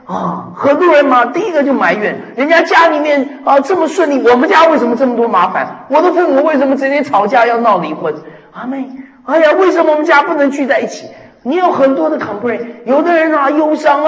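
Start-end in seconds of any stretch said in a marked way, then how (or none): 2.4-11.1 higher, quick whiny grumbling; mock complaining. Preacher imitates a grumbling child, mildly whiny. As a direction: play a sulky kid griping about home. Voicing people who complain.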